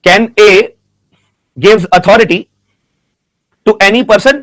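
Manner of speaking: word groups with long pauses between; slow dictation. Real, not acted. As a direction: dictate slowly for students writing it down. Dictating a question to students. (धीरे-धीरे, रुक-रुककर सवाल लिखवाते हुए)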